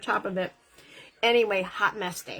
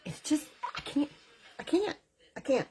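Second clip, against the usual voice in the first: speechless awe; 6 semitones higher, 5 dB quieter than usual. Real, not acted. Lost for words over product.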